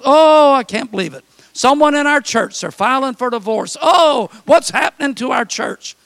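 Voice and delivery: fretful gasping gossip; mock dismay. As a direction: play the shocked church busybody. Mock gossip about church troubles.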